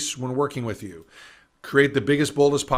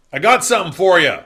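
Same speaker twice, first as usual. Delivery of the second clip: gruff client; 5 semitones higher, 10 dB louder than usual. Retold or imitated.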